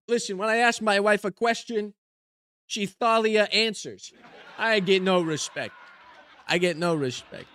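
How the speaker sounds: lightly voiced put-upon comedian; old-school joke delivery with catchphrase; put-on stand-up comic. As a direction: play a hammy one-liner comic. Delivers one-liners as joke comedian persona.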